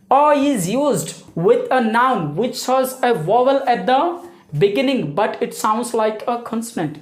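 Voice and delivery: very slow, deliberate rule reading; teacher reading the rule slowly so pupils understand; slow dictation. Shown as a demonstration. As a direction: spell the rule out slowly for the class. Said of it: "धीरे से समझते हैं".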